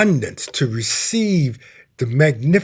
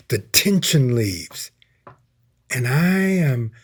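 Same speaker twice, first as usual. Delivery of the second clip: retold prayer; 2 semitones lower than usual. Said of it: "I say".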